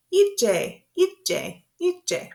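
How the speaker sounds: high, repeated wake-up call; waking a child. Pretend. Parent getting a sleeping child up, high repeated call. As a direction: call it high to get them up. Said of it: "used when they're sleeping to get 'em up".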